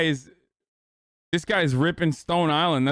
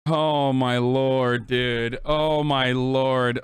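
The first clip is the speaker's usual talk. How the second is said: slow exasperated groan; 3 semitones lower, much slower than usual. Real, not acted. Exasperated at a chat comment.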